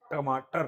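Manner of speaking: टमाटर with the tongue curled back for each ट; exact pronunciation. Shown as a demonstration. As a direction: model टमाटर carefully for the class. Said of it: "एकदम exactly अगर बोले तो ऐसे बोला जाए".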